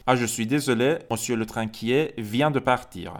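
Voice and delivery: a hint of a polite secretary, slowed for learners; a polite secretary apologising, slowly; slow, lightly voiced secretary. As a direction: speak as the receptionist, slowly. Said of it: "منشیش میگه".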